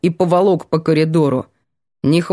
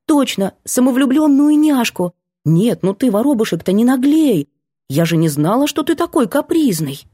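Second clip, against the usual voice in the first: put-on higher, playful girl's voice teasing; 6 semitones higher than usual. Girl teasing the grumpy guy with pet names, playful. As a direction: tease him sweetly with silly pet names.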